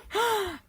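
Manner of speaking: sharp, high gasp of fright; terrified gasp. Acted. Mister Jelly about to faint, terrified gasp.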